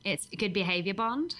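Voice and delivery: put-on Australian accent for one phrase; attempted Australian accent. Shown as a demonstration. Guest shows podcast host her one Australian phrase, attempted Australian accent. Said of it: "I can say one thing with an Australian accent".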